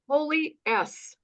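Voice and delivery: retold shocked exclamation. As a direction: let the disbelief stretch it out.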